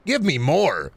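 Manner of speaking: high-pitched pretend yummy enjoyment; mock eager delight. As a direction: relish it like forced bliss over a foul drink. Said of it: "you go".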